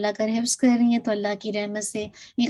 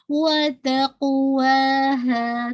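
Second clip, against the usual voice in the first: slow وَتَقْوَاهَا with an echoing qalqala on the ق; Quran recitation; much slower than usual. Shown as a demonstration. Teacher recites the word slowly for her class. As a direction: chant وَتَقْوَاهَا, bouncing the ق. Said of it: "قلقلہ ہو جائے گا".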